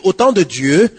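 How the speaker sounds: mocking bluffer. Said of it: "prier en bluffant".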